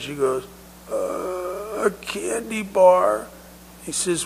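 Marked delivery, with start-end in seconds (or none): 0.9-3.3 put-on high, slow, whimpering child; tearful little girl. Crying girl confesses to the paramedic, tearful little voice. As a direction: admit it reluctantly through mock tears. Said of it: "she's crying and evidently in some pain".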